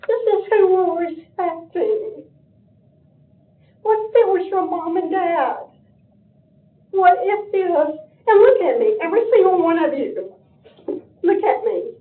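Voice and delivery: crying while pleading, voice breaking; tearful plea. Real, not acted. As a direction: beg them through real tears. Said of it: "I get emotional".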